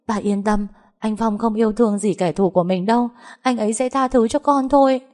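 high-pitched, anxious begging; pleading. Acted. Daughter begging her angry father to save her, high pleading.

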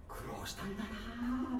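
soft, drawn-out words of sympathy; murmured fondly, stretching the last vowel; tender sympathy. Retold or imitated. Speaker pitying a weathered old classmate, tender. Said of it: "抱きしめてあげたくなる".

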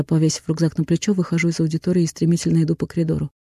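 plain reading voice

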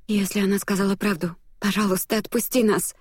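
desperate, rising entreaty; pleading. A narrator's reading. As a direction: beg him to let them go. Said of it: "взмолилась принцесса".

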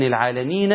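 العالمين ending in an audible short "na"; final fatha voiced. Shown as a demonstration. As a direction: pronounce the "a" after the noon of العالمين. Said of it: "النون مفتوحة".

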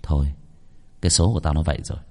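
low, soft, defeated voice; man resigned after losing an eye; dazed resignation. A narrator's reading. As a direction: give up on fate. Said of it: "Thiên Phong thất thần".

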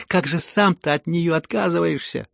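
loud, indignant scolding; гневная отповедь. Acted. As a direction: lash out at them, rising in anger. Разгневанная отповедь Лизаветы. (громкий гневный упрёк)

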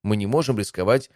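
high-pitched, concerned guard commander; worried subordinate. A narrator's reading. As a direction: object anxiously but respectfully. Guard anxiously objects to emperor's plan.

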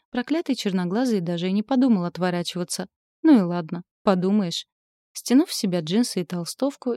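usual speaking voice

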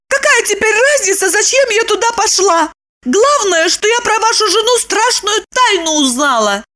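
high, angry woman's voice; angry Lipochka. A narrator's reading. Lipochka angrily answering Roman, high voice. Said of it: "Она рассердилась".

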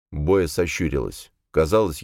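usual speaking voice

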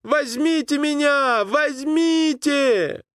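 high, slow begging call; pleading shout. A narrator's reading. Boy begging the boatmen to take him, high shout. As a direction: shout the plea, near tears.

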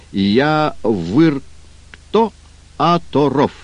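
"я выр кто оторов" is "открывай ворота" reversed, high; backwards speech. Shown as a demonstration. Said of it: "по-ихнему".

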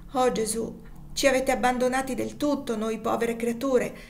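a pleading cry to Jesus, slowing at the end; desperate cry to heaven; anguished exclamation. Acted. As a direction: call out to God in despair. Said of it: "esclamò egli".

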